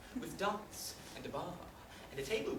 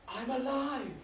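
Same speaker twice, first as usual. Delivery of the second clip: raised, higher, louder protest; indignant exclamation; 8 semitones higher, 7 dB louder, slower than usual. Acted. Husband defending himself to wife after crash, indignant exclamation. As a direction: protest it loudly and high.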